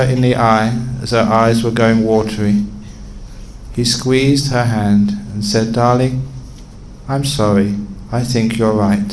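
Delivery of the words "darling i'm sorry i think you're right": lightly acted soothing husband, unhurried; tender apology. Husband tenderly gives in to wife.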